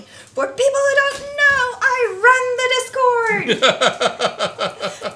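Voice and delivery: high, drawn-out yell breaking into laughter; mock yelling. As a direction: holler it slowly like a proud announcement. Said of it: "Jack of All Trades yelling".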